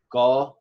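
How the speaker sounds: "come" split in two, loud CO then lighter me; "come" as CO, then unstressed "me"; stress on CO. Shown as a demonstration. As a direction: punch the first syllable of Spanish "come". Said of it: "stressed, unstressed".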